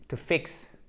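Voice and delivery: "to fix" whispered; whispered model. Shown as a demonstration. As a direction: breathe "to fix" softly, no voice. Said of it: "qui signifie réparer".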